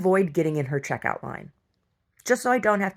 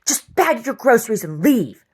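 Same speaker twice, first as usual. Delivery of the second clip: mock snippy cashier; 5 semitones higher, 7 dB louder than usual. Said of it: "She goes".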